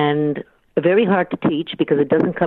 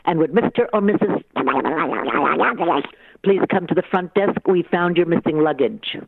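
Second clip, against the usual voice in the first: flat echoey pa page; 3 semitones higher than usual. Pretend. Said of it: "doing the announcements".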